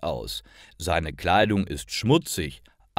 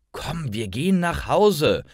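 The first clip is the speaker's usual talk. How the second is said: a firm grandma, a bit higher; grandma firmly calling Lisa home; strict; 7 semitones higher than usual. A narrator's reading. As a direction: call the girl home sternly. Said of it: "sagt sie streng".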